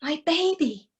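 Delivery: put-on a worried mother who forgot her baby; mild alarm, then fretting; fretful mother. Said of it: "until she said".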